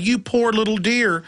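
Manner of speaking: mock a preachy social worker talking down; a hint of a condescending busybody; rude busybody. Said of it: "rudely said".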